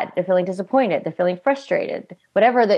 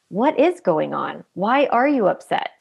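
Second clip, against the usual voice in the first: asked with curiosity. Retold or imitated. Parent calmly asking an upset toddler, gentle curious tone. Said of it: "asking it from curiosity".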